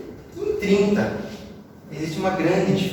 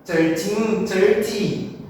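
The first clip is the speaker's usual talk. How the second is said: "thirteen, thirty" with one identical stress pattern; matching, confusable "thirteen, thirty"; same stress on both; much slower than usual. Shown as a demonstration. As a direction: blur "thirteen" and "thirty" into near-identical words. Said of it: "se a gente fosse colocar a mesma sílaba tônica".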